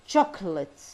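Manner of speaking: CHOCOLATE with a strong first syllable; teacher's stressed model of "Chocolate"; word stress demo. Shown as a demonstration. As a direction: punch CHOC, let "olate" drop away. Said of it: "هنا يصير عليها ستريس".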